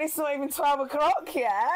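flirty retort with a laugh in it; trying to be cute. Retold or imitated. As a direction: play it cute and teasing. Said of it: "Trying to be all cute".

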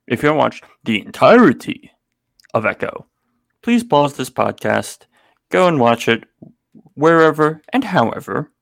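mock announcer delivering a spoiler warning; smooth, formal PA announcement; airport announcement. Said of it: "why don't you deliver a sweet, sweet spoiler warning?".

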